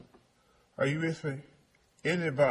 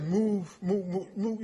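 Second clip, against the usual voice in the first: higher, impatient acted order; brusque brush-off; 5 semitones higher, slower than usual. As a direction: shoo him aside as the take-charge wife. Acting Jezebel pushing husband aside.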